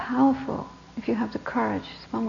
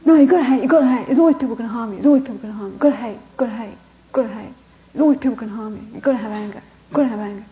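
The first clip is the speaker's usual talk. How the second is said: insistent; faster than usual. Retold or imitated. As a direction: keep pressing the point. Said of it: "He's like".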